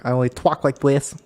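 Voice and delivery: hammed-up Boston with "talk" as "twalk"; mock Bostonian accent. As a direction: put on a silly Bostonian accent. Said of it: "sort of Bostonian accent".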